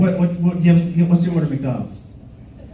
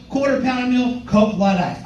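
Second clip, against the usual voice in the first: higher repeat; 4 semitones higher than usual. Shown as a demonstration. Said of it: "I always get".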